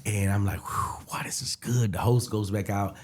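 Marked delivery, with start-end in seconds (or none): 0.6-1.9 whispered relief. Retold or imitated. Relieved self-talk after set.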